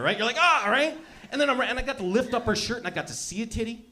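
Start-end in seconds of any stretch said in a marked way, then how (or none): 0.4-0.7 short demonstrative grunt; mock grunt. Showing the crowd how kids grunt, mock grunt. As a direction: grunt it out for laughs. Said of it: "You just grunt at each other".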